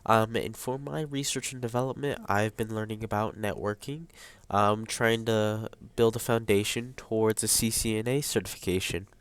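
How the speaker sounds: stuffy, congested nose; blocked nose. Real, not acted. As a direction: speak through a blocked nose. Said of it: "sorry if I sound a little congested".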